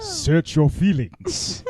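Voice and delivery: slow, deliberate Vader line. Retold or imitated. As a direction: intone it slowly like Vader.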